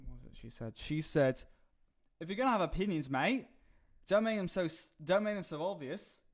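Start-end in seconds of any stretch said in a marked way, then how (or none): 2.2-6.2 higher-pitched, bad Aussie impression; lightly put-on Australian accent; terrible Australian accent. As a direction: imitate an Australian woman, badly. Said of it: "that's a terrible Australian accent".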